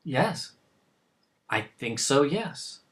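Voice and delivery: hesitant, softly spoken yes; quiet, doubtful self-assurance; unsure. Acted. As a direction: answer with wavering conviction. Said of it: "You don't sound too sure".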